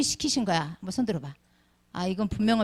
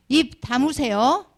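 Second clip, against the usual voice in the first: condescending; 3 semitones higher, 4 dB louder, slower than usual. Retold or imitated. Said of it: "이렇게 말할 수가 있어요".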